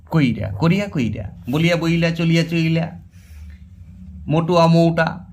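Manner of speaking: each full form, then its i- or u-shifted form, as in কোরিয়া কইরা; epenthesis examples. Shown as a demonstration. Teacher giving examples of epenthesis, contrasting চলিয়া and চইলা. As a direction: pair বলিয়া with বইলা, vowel moved before the consonant. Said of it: "উচ্চারণ আগে করার প্রবণতাকেই বলা হয় অপিনীতি".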